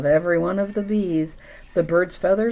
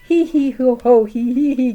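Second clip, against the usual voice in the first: loud spoken he-he-ho laugh; giggled and guffawed; 7 semitones higher, 8 dB louder than usual. Acted. Elephant shaking with laughter, loud giggling. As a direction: guffaw through the syllables. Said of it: "giggled and guffawed".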